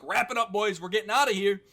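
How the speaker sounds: mock order to the crew; acted boss. Acting out pirate boss giving orders.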